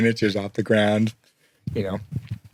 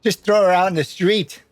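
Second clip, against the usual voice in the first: put-on old goblin; 8 semitones higher than usual. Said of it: "you hear this old goblin say".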